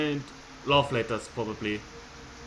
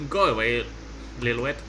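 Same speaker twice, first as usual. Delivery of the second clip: menacing sister; 3 semitones lower than usual. Acted. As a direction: sneer "little rat" at her brother. Voices sister Jennifer.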